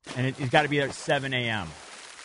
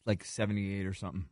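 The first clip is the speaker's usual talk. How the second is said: talking through a mouthful of steak; chewing steak; 5 semitones lower, 6 dB quieter than usual. Real, not acted. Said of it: "I'm just chewing my steak".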